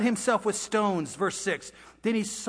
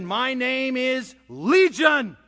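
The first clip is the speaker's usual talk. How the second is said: slow, slightly raised demon proclamation; demon's answer; 4 semitones higher, 4 dB louder, much slower than usual. Acted. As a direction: announce it slowly, lightly voicing a demon. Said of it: "And the demon said".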